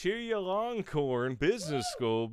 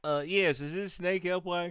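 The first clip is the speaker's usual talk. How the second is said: dumb redneck caller; 4 semitones higher, 4 dB louder than usual. Retold or imitated. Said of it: "they're gonna ask anyway".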